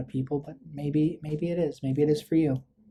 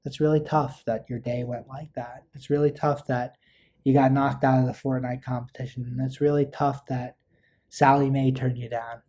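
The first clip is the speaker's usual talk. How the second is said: validating. Shown as a demonstration. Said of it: "Act interested in what the person's saying".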